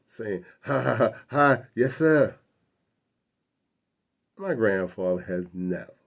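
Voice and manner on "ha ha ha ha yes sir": put-on, higher ha-ha laugh into a yessir; servile chuckle. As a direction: imitate a grandfather chuckling to please a cop. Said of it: "chuckles a little bit".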